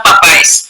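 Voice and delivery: "papá es" with an extra "es" after the stressed á; wrong plural pronunciation. Shown as a demonstration. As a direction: add a separate "es" syllable onto "papá es". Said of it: "esa pronunciación no está bien".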